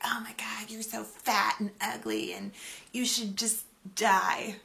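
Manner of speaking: whispered nasty comment; mock troll comment. Quoting a cruel internet troll, whispered mock insult.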